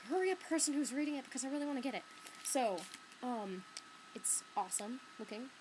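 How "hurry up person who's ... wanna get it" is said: acted impatience. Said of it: "I was just like".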